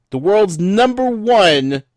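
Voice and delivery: slow, big announcer build-up; hyped announcer. Acted. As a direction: sell it like a showman. Hyping the podcast intro.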